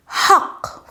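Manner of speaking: "حق" opened on a voiceless airy ha; breathy Arabic ha. Shown as a demonstration. Teacher models the Arabic word for learners, breathy voiceless ha. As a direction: push air out at the start of "حق". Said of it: "practice on pronouncing your ha".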